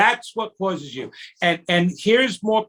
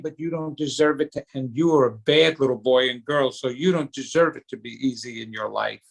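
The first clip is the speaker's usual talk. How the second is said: lower, quicker self-scolding voice; inner child scolding; 6 semitones lower, faster than usual. Retold or imitated. Inner kid scolding about money worries, quick low voice. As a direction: mutter the put-down quickly and low. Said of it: "your little kid is saying".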